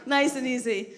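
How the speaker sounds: hushed soothing to the crowd. Shown as a demonstration. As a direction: bring it right down, gently. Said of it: "calming the audience".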